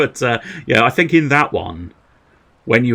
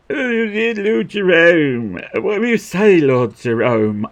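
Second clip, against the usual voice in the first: much higher, slow pleading voice; pleading character; 9 semitones higher, 4 dB louder, slower than usual. Acted. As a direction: beg the lord in a high lifted voice.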